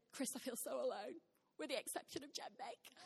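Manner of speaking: quiet correction. Retold or imitated. Wife correcting herself to her husband, softly. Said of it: "And so I corrected myself".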